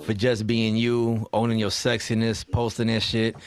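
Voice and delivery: sincere real talk. Real, not acted. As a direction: drop the joking and tell them sincerely. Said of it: "real talk".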